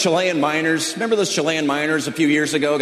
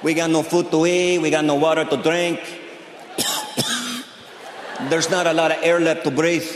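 imitated trapped miner; 4 dB quieter than usual. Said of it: "Do you think they're down that mine going".

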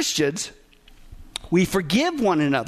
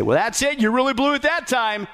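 imitating a fed-up rejection, rising in pitch; mock rejection; 3 semitones higher than usual. Preacher acting what God would never say, mock rejection. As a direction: act out giving up on someone, pitch climbing. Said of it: "He doesn't say".

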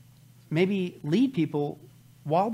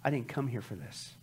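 a whiny, brushing-off excuse-maker, whispering and whimpering by turns; mock scoffer; 3 semitones higher, 9 dB quieter than usual. Scoffer waving off Pastor Billy, mock whiny excuses. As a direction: play the lazy scoffer dodging the pastor's warning. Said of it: "He said".

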